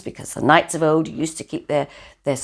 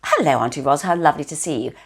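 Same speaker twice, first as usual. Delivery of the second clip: polite greeting. Shown as a demonstration. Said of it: "which it would be for Teddy".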